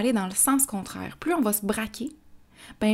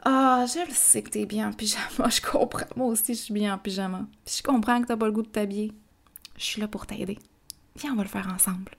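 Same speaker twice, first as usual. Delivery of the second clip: warm and calm. Acted. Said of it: "des encouragements sincères de maman ou de papa".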